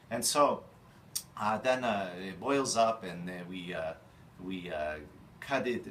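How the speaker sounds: schmooze the bargain like a shtetl grandpa; Eastern European deli chef. Acted. Chef Stan pitching corned beef in his old-country persona, lightly voiced.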